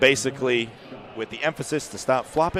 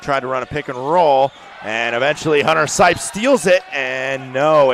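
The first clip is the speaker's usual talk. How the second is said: louder, animated steal call; raised, excited commentator voice; excited play-by-play; 6 dB louder than usual. Real, not acted. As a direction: call the turnover as it happens.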